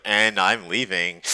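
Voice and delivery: slow, deliberate comic announcement; drawn-out awkward exit. Retold or imitated. Man excusing himself from staring Germans, slow deadpan retreat. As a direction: stretch it out as you back away.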